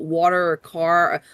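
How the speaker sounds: slow New Jersey "water or car", drawn-out vowels; Jersey accent. Shown as a demonstration. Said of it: "people asking me about, like, water".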